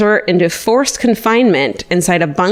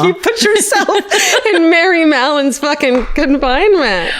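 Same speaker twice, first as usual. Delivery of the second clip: high, giggling disbelief; real laughter mid-sentence; laughing; 10 semitones higher than usual. Real, not acted. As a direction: laugh the words out at her. Laughing at friend's joke.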